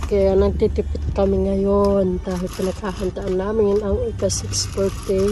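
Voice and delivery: ordinary talk, nothing marked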